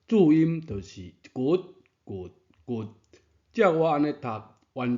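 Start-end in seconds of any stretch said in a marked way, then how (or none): 0.1-2.9 骨、骨、骨连读，声调各异; 把三个「骨」连着读出声调变化; 三字连读示范. Shown as a demonstration. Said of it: "这三字连读". (三字连读「骨」的示范)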